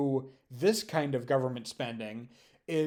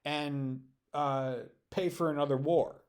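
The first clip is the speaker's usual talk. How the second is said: mock O'Reilly war cry. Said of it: "would he say".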